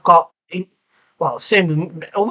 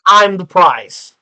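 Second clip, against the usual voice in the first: mock smug diva; 5 dB louder, much slower than usual. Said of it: "typical plastic woman that is like".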